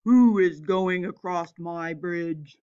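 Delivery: low troll shout. Acted. Troll shouts at the big goat. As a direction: growl out the challenge. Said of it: "and shouted".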